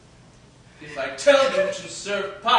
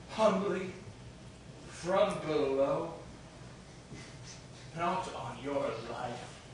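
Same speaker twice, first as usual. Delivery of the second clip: lower, much softer scheming; conspiratorial murmur; 7 semitones lower, 13 dB quieter than usual. Acted. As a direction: plot in a hushed voice. Quiet scheming.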